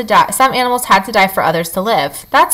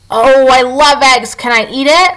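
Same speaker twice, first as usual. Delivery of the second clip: eager fox; 4 semitones higher than usual. A narrator's reading. Fox wanting the egg.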